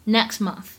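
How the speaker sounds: "next month" with the t unreleased; incomplete plosion. Shown as a demonstration. Teacher showing the dropped burst in "next month", incomplete plosion. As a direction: hold back the t of "next" before "month". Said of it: "不完全失去爆破".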